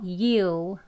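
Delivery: YOU with a long oo; full, lengthened "You"; long vowel. Shown as a demonstration. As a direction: draw out "You". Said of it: "길게 발음이에요".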